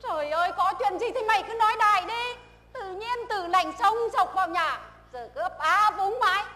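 fast, loud exasperated nagging; mother scolds stammering daughter, exasperated; impatient scolding. Acted. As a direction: push her to spit it out.

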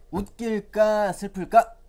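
high, loud playful question; loud, slow singsong question; playful quiz. Acted. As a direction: tease the kids with the choice. Teacher quizzing children.

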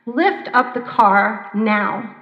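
loud, very slow order; commanding call. Retold or imitated. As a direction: give the order slowly and firmly. Driver commanding rescuers.

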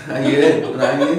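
laughing while protesting; giggling through the words. Real, not acted. Laughing while claiming illness.

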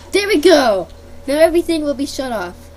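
loud triumphant announcement; proud and loud; excited. Real, not acted. Triumphant button press.

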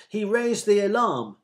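loud, high excited call; eager shout. A narrator's reading. Another in the crowd calls out an answer, eager shout. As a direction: shout out a hopeful guess. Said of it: "shouted another".

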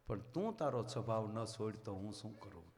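low, soft sorrowful question with stress on તું; a sad saint gently scolding, weight on તું; hushed, hurt reproach with a falling end; quiet sad reproach. Retold or imitated. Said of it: "સંત રડતા રડતા કહે છે".

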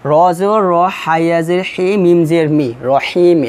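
slow teacher spelling of রহিম; spelling out letters. Shown as a demonstration. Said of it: "এটা আমি বানান করছি". (বানান করে পড়া)

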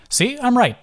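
smiling. A narrator's reading.

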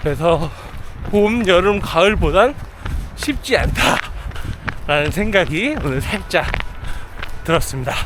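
talking while jogging; breathy voice mid-run; while running. Real, not acted. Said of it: "데일러닝을 나왔습니다". (달리면서 말하기)

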